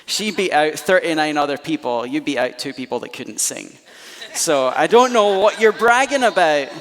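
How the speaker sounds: mock scolding mum, rising to a sharp finish; mum's knockdown. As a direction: cut the proud kid down to size. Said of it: "She goes".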